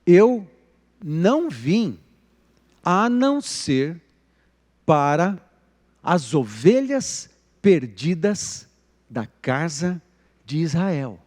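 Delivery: slow, with long pauses between phrases; measured, deliberate pronouncement; solemn quotation. Acted. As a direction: deliver it piece by piece, weightily. Quotes Jesus answering the woman.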